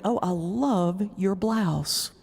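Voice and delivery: slow, sugary fake praise; mock gushing compliment. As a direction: lay the flattery on thick.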